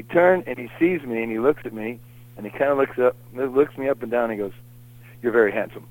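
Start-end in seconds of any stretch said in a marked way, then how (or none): 5.2-5.9 imitating a deadpan compliment. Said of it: "It's like deadpan".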